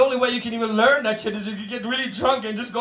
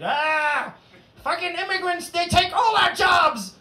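slow, rising to louder, higher rant; mock racist complaint, slowing and getting louder; grumbling racist; 4 semitones higher, 3 dB louder, slower than usual. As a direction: play a fed-up local complaining. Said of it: "people tell me, it's like".

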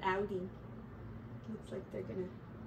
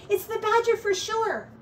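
high, loud startled squeak; frightened mouse; 11 semitones higher, 6 dB louder than usual. A narrator's reading. Mouse spots the badger, loud high alarm. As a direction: Mouse jumps at the rustling sound. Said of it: "jumping in the air".

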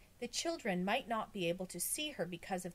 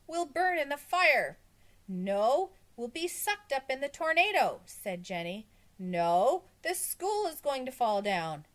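high, insistent contradictions; loud squabbling; 8 semitones higher, 8 dB louder than usual. A narrator's reading. Children argue over which disaster is coming, loud and high. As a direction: argue each doom louder than the last.

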